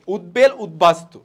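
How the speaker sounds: উদ্বেল, উদ্বাস্তু as ud-bel, ud-bastu; b fully sounded. Shown as a demonstration. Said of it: "বয়ের উচ্চারণ রয়েছে".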